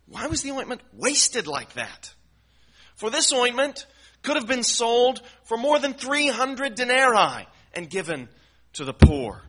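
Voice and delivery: high, loud indignant protest; indignant objection. Retold or imitated. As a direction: voice the critics' mock outrage.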